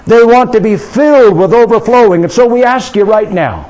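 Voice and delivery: rising preacher's prayer, building force; fervent prayer. Real, not acted. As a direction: pray over them with growing fervour. Pastor leads prayer aloud.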